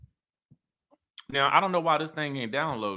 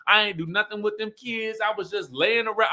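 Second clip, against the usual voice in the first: higher, sassy mock confession; sassy ex-wife, higher voice, mock self-mockery; 5 semitones higher than usual. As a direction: retell it with playful attitude. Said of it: "Melody gets sassy".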